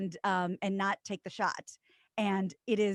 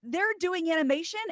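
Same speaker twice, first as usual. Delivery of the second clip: loud, high mock astonishment; exaggerated retold amazement; astonished reaction; 8 semitones higher, 7 dB louder than usual. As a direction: blurt out a big stunned "whoa". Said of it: "all of a sudden we're like".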